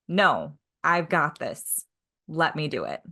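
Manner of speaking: low, measured, understated self-assurance; earnest insistence. Acted. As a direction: calmly insist on handling it alone. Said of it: "In the moment, was she saying still".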